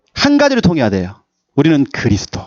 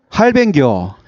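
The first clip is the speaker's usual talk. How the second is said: clipped Gyeongsang dialect "할뱅교"; slower than usual. Shown as a demonstration. Pastor demonstrating Gyeongsang dialect to the church. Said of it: "경상도 사투리".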